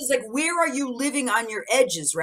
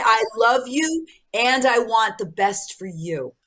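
slow, tender farewell; slower than usual. Shown as a demonstration. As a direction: say it slowly and kindly, letting go. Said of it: "It can be like".

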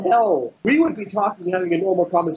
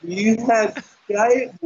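imitating; 4 semitones higher, slower than usual. Mimicking him at the door.

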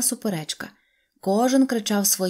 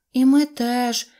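a higher, louder chorus of dolls; 5 semitones higher, 5 dB louder, slower than usual. A narrator's reading. Three actress dolls answering together, raised and bright. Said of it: "як завжди хором".

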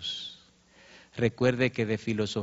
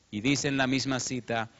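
normal talking voice

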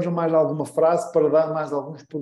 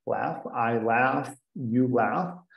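slow, clear verb drill; walk them through the verb; teacher conjugating slowly; slow conjugation drill; 4 semitones lower, 6 dB quieter, much slower than usual. Shown as a demonstration. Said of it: "também é o verbo".

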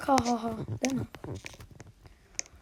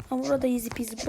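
cocky; faster than usual. Real, not acted. Gamer taunting easy section.

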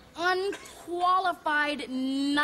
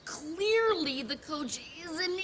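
slow, haughty, drawn-out insult; snooty put-down; 4 semitones higher, slower than usual. Acted. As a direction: lay it on slowly with disdain.

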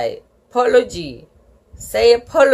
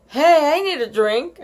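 higher eager call; excited kid spotting the fountain; 6 semitones higher than usual. A narrator's reading. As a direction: burst out with excitement. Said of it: "I said, very excited".

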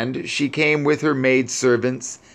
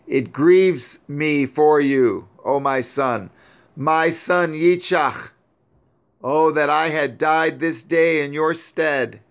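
weeping mother; 4 semitones higher than usual. Acted. Sarah still weeping for her son, higher mournful lament. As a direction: plead in sorrow, voice raised high. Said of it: "And she continued to weep and said".

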